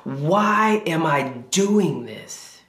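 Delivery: slow it right down, heavy with frustration; slow frustrated plea. Retold or imitated. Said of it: "yelling at God".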